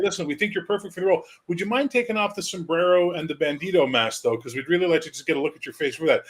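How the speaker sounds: high, fast pushy exec; casting director voice. Retold or imitated. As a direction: rush him like a slick agent. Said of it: "We'd be like".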